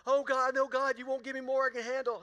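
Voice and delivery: high, loud whining complaint; whiny wail. Retold or imitated. Preacher mocking congregants' wailing prayer, high loud whine. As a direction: wail it like a dramatic believer.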